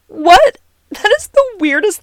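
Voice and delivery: high, loud, shocked "what?". Retold or imitated. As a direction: blurt it out, stunned and amused. Reacting to his gag-reflex excuse.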